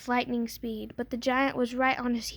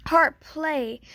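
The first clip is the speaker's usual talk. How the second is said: louder, curt command to the harp; ordering; 3 semitones higher, 6 dB louder than usual. A narrator's reading. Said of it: "ordered the giant".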